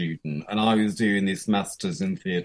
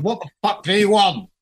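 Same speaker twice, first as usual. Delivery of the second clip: put-on Basildon accent; 9 semitones higher, 4 dB louder than usual. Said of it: "I can't do a Basildon accent".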